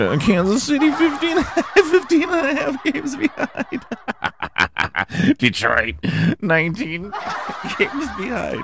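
high, giggling read; laughing through standings. Real, not acted. Host reading losing teams, high laughing read. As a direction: try to read it but keep cracking up.

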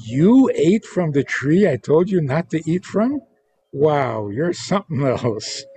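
rising, amused disbelief; impressed surprise. Shown as a demonstration. God marveling that Adam dared defy him, impressed. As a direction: sound pleasantly amazed.

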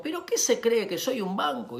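indignant father. Acted. Father's acted outrage at the mail.

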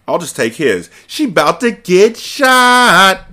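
high, slow, put-on wicked voice; wicked scheming. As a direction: drag it out like a sly villain. Character scheming aloud.

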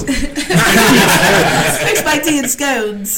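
playful, amused British imitation; mimicked British accent. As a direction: echo a mock-British line through laughter. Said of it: "I put British accent on everything".

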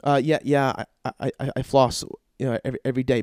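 halting, stammered mock assurance; sheepish. Patient telling the dentist he flosses, sheepish. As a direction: stumble through an unconvincing answer.

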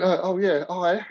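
put-on high, breezy hello to an old pal; mock friendly greeting. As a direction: play it innocent and chummy. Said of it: "as if, like, an old pal".

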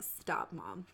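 whispered, low and soft stop; groggy plea. Retold or imitated. Daughter groaning at her mother in the morning, whispered. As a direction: beg her to stop, half asleep. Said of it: "she'll just be like".

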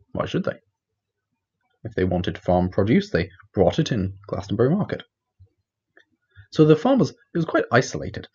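wizard storyteller in a put-on Welsh accent; Merlin's Welsh accent. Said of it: "that was my terrible Welsh accent playing the part of Merlin".

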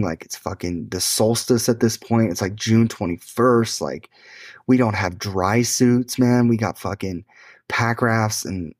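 insistent retold protest, piling up objections; retold excuses. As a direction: argue it like reeling off reason after reason. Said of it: "coming up with all these excuses".

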